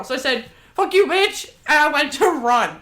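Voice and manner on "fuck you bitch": retold curse. Cursing at the creepy lady.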